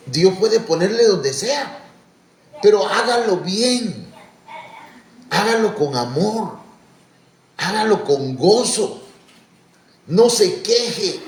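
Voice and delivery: slow, high, building preacher's plea; rising preaching exhortation. Real, not acted. Pastor urging the church to serve gladly, slow rising preach.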